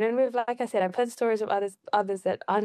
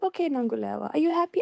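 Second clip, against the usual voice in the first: dad asking in Fijian; 5 semitones higher, faster than usual. Retold or imitated. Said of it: "he said in Fijian".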